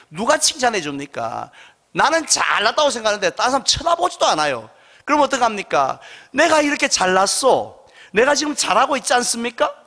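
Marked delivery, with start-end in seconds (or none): 6.3-9.7 boastful self-promotion. Retold or imitated. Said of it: "라고 자기 피알을 더 심하게".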